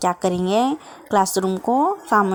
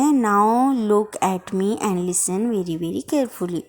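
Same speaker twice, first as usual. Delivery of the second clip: quoting the monitor; much slower than usual. Retold or imitated. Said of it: "ऐसे बोल रहा है वो बच्चा".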